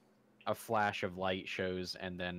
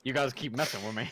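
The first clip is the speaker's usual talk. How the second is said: laughing; faster than usual. Real, not acted. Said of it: "not to laugh".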